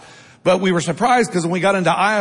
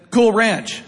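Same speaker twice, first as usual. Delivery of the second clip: laughing punchline; 3 semitones higher than usual. Retold or imitated. Punchline told to his sister.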